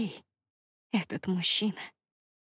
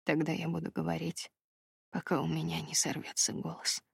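rasped; 3 semitones lower, 7 dB quieter than usual. A narrator's reading. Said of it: "прохрипел он".

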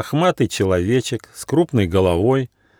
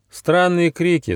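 thoughtful; 9 semitones higher than usual. A narrator's reading. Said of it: "задумчиво сказал гномик".

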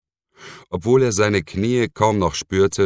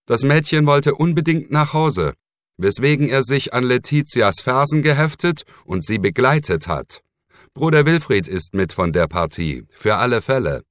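curt and gruff, much higher and louder; 8 semitones higher, 4 dB louder than usual. Acted. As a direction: grumble it out irritably. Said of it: "fügte unwirsch hinzu". (unwirsch und gereizt)

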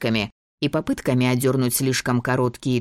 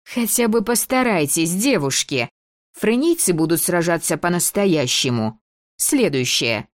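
требовательно; 5 semitones higher than usual. Acted. Дебора подгоняет девушек.

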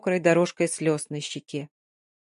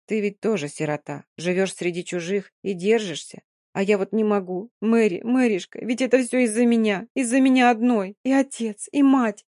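put-on grieving girl, building to despair. Dina confesses her guilt, rising.

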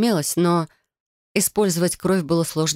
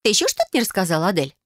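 put-on bright, higher girlish cousin voice, eager; Felicia's voice; 3 semitones higher, faster than usual. Cousin proposing a blood oath to Adel, eager and higher. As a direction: play the scheming cousin, higher.

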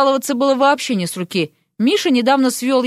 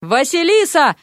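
mild, higher-pitched call of a name; 5 semitones higher than usual. A narrator's reading. Someone calls Vasilisa from the classroom, calling out. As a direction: call out for someone, without a full shout.

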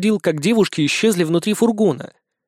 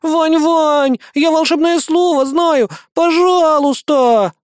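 put-on high, loud, slow childish pleading; louder drawn-out please; begging; 12 semitones higher, 5 dB louder, much slower than usual. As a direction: beg like a whiny little girl. Girl begging loudly.

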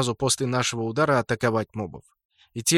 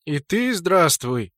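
grandly sung out, slow; pompous singsong; 2 semitones higher, 3 dB louder than usual. Acted. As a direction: hail the lord with pomp. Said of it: "с пафосом пропел он".

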